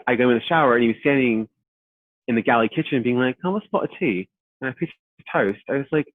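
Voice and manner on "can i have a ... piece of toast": British guest. Retold or imitated. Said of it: "Was, was he British?".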